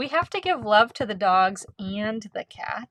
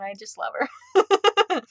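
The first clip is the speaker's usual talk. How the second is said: higher, louder, slow gush of love; 10 semitones higher, 4 dB louder, much slower than usual. Real, not acted. About her doggy niece Sadie, an excited gush. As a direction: swoon over the dog, drawn out.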